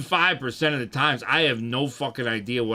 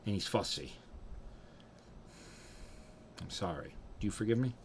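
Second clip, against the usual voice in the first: pleading Papa; 5 semitones lower, 5 dB quieter than usual. Acted. Plays Papa apologizing after anger.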